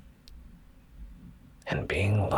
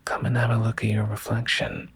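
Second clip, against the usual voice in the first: put-on higher, quick whispered little-girl call; Susie's eager voice; 10 semitones higher, 3 dB louder, faster than usual. Susie urging Fluffal to the window, eager whisper. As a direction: whisper it brightly and fast as an eager child. Susie calls her friend to look.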